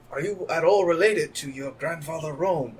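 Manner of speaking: ambiguous foreign authority figure, measured and slow; weird authoritative voice. Acted. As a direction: put on a weird, authoritative country-character voice. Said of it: "masculine country ambiguous voice".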